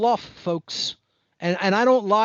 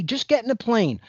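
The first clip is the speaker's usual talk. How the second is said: mock recruiter pitch; 4 semitones higher than usual. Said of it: "If you told me".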